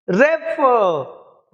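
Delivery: रेफर said very slowly, weight on फर; drawn-out demo of रेफर stressing फर; stress on second syllable. Shown as a demonstration. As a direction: lean hard on the फर of रेफर. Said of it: "इस फॉर को जोर से पढ़ना है".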